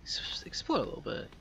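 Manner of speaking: soft whisper to self. Real, not acted. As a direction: whisper it under your breath. Muttering to self while exploring.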